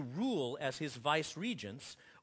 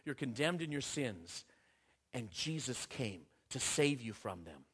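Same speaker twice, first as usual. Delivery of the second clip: softer, lower gospel pronouncement; solemn quiet quote; 5 semitones lower, 5 dB quieter than usual. Acted. Preacher quoting the gospel, hushed and grave. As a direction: lay the verdict down gently and gravely. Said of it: "because the gospel says".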